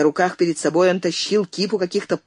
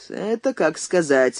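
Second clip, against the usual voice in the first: мрачно; slower than usual. Acted. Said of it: "мрачно проговорил Андрей".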